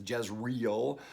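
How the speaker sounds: Jezreel with the ending merged into REEL; common anglicised pronunciation. Shown as a demonstration. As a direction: say Jezreel in two syllables, jez-REEL. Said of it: "you hear people pronounce it as".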